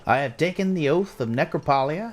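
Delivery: slow, lilting pledge in character; measured oath-leader's voice; guard reciting an oath. Acted. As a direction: recite it solemnly for others to repeat.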